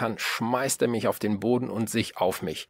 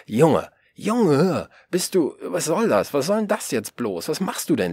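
high, loud, scolding outburst; old man berating the boy in a rage; furious yelling; 6 semitones higher, 5 dB louder than usual. A narrator's reading. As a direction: tear into the boy at full volume. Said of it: "er brüllt los".

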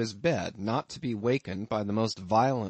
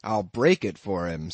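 passionate outburst; 2 semitones lower, 5 dB louder than usual. Acted. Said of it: "flying into a passion".

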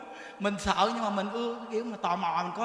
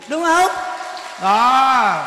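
loud, punchy rhetorical question; emphatic loud; 10 dB louder, much slower than usual. Real, not acted. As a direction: drive the point home to the crowd. Nhấn mạnh với khán giả. (hỏi lớn đầy nhấn mạnh)

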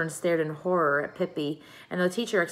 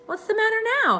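surprised question; 4 dB louder, faster than usual. A narrator's reading. Tommy asks, surprised.

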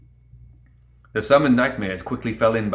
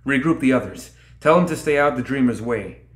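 higher, louder urgent commands; shouted orders; 4 semitones higher, 3 dB louder than usual. Acted. Lilith orders Barbaros to rally the others, shouting. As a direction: call the orders over the din of battle. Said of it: "Lilith shouted over the sound of grinding steel".

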